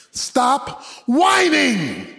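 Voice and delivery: slow, weighty stop whining said again; very slow emphatic repeat. Shown as a demonstration. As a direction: stop whining drawn out very slowly, each word weighted. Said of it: "let me say it again".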